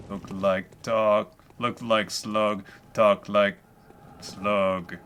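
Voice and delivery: very slow slimy snail voice. Pretend. Keeps voicing the slug people.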